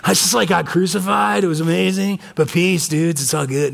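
lightly voiced laid-back surfer dude with a laugh; a hint of a chill hippie saying peace, man; stoner surfer Jesus. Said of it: "I'm not trying to be blasphemous".

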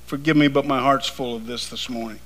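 low, soft confiding preacher; quiet preaching. Real, not acted. Quiet confiding aside in sermon.

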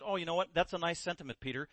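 a quiet, cutting reply; Jesus dryly answering Peter's rebuke; unhappy. Retold or imitated. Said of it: "Jesus wasn't happy".

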